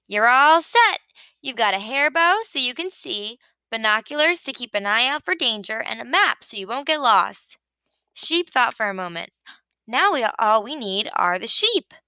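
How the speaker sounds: a hint of a chirpy sheep, quick and eager; lightly voiced Sheep. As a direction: rattle it off like a busy know-it-all. Sheep's voice held.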